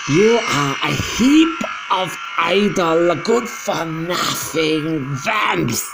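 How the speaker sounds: high, loud, scornful witch rant; furious witch tirade. Acted. Grand High Witch scolding the audience, furious shrieks. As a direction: lash them with every insult. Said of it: "she yelled".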